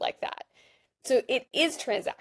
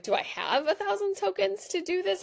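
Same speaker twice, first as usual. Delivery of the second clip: anxious inner voice; 10 semitones higher than usual. Retold or imitated. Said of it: "And I was like".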